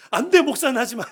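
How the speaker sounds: loud, high joking no; emphatic refusal. Retold or imitated. Father loudly telling his son not to become a pastor. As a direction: shout it down with a grin.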